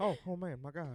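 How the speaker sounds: calm, easygoing exclamation. Repeating the bit when asked again: Joe Biden impression. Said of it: "do that again".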